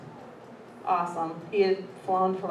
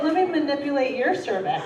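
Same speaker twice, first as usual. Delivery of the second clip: a bit higher, mocking the doctor; 5 semitones higher than usual. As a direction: parrot him with a sneer. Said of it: "I was like".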